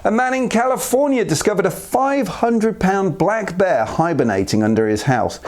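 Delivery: usual speaking voice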